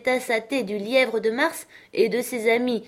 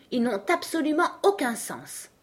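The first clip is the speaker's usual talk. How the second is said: higher-pitched character voice, dismissive; 6 semitones higher than usual. Acted. Alice tells the court her opinion, dismissive. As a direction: pitch it up as a firm verdict. Alice's own verdict, versus narrated echo.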